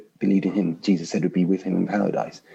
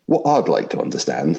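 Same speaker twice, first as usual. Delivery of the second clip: grumbling ghost voice; 4 dB louder than usual. Acted. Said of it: "I'll try vaguely to put on different voices".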